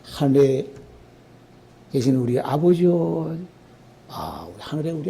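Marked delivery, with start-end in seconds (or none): 0.0-3.4 slow prayerful recitation. Shown as a demonstration. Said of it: "야, 이렇게 기도해".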